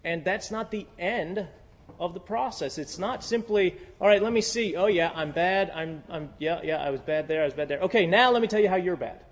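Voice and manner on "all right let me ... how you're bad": mock self-righteous confession. Mock self-examination then blaming.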